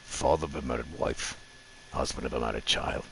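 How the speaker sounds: low, quiet, half-hearted gladiator voice; bad Russell Crowe impression. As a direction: try the gruff Roman general again, softly. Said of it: "I have bad impressions".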